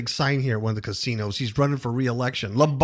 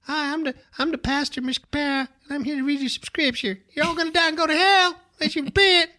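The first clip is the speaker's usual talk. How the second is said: high, hammed-up preacher voice building to a fire-and-brimstone yell; teasing the co-host by playing him as a gloomy preacher; mock hellfire pastor; 13 semitones higher, faster than usual. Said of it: "will you do that every Sunday?".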